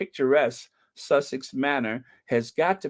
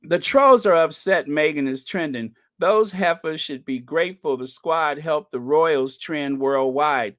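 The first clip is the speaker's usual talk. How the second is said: sassy dramatic read; 2 semitones higher, 3 dB louder than usual. Shown as a demonstration. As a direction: read it with full sass and drama. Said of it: "let me do it some justice then".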